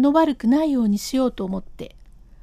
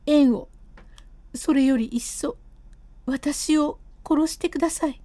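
higher, frightened wife pleading; wife's alarm; 3 semitones higher than usual. Acted. Wife frightened her husband will cut her, higher pleading voice. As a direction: beg him, scared and indignant.

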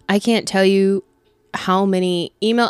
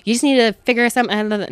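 dramatic mock friend; 3 semitones higher, 3 dB louder than usual. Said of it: "I'm just being really dramatic".

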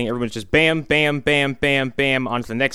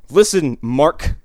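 mock rant; 5 semitones higher, 3 dB louder than usual. Ranting at the reporter character.

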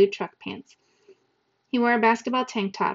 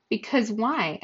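innocent; 2 semitones higher, slower than usual. Acted. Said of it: "I asked innocently".

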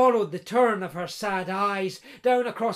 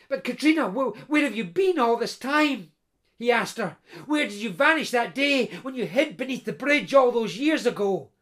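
lightly voiced eager man, amazed at her youth; Peter, astonished blacksmith; 2 semitones higher, 3 dB louder than usual. Blacksmith Peter marvelling to his lost bride Katrina, mild eager wonder. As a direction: gush over her, slightly raised and excited.

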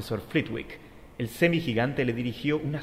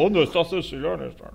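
louder angry giant demand; angry Hagrid; 4 semitones higher, 4 dB louder than usual. Acted.

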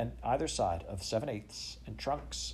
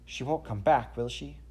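tremulous; 4 semitones higher, 4 dB louder than usual. A narrator's reading. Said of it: "asked Jane tremulously".

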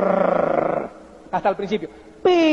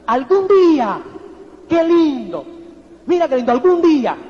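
louder, savoring each "Algún día" and "qué lindo" like a daydream; dreamy longing; 5 dB louder than usual. Shown as a demonstration. Speaker showing the audience the hopeful expression, louder and dreamy. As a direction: sigh out "Algún día" as a happy wish, loud and lingering. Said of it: "fíjate esa expresión, apúntala".

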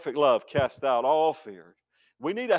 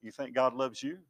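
taunting tempter; 4 semitones higher, 3 dB louder than usual. Retold or imitated. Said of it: "Satan will whisper".

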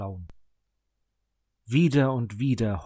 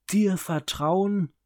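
higher, louder, slow scorn; scornful; 8 semitones higher, 5 dB louder, slower than usual. A narrator's reading. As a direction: sneer it even harder. Repeated scornful echo.

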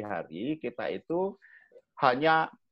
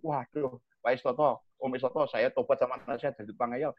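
pleading parent; 3 semitones lower, 3 dB quieter than usual. Retold or imitated. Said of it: "age omong".

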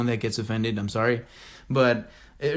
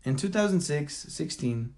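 softer mock stumble on "six sixteen"; imitating struggling speaker; 6 dB quieter than usual. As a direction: quietly re-enact his fumbled opening. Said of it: "like, this is how he started".

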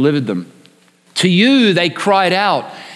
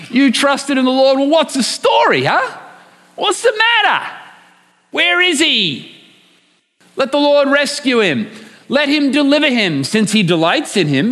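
mocking inner voice; 4 semitones higher than usual. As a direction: jeer like the doubting voice inside. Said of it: "that little voice in your head".

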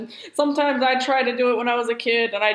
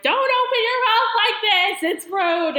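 crisp disapproving governess; 10 semitones higher than usual. Retold or imitated. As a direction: lecture her like a strict governess. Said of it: "and it's like".

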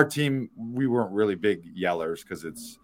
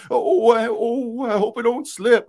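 scared; 6 dB louder than usual. Retold or imitated. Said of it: "you walk around".

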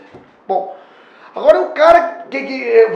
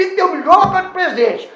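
loud, laughing mock demand for the best wrapping; demanding customer; 5 dB louder than usual. Owner mocking a customer who wants luxury wrapping, loud mock demand. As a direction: ham up a pushy customer.

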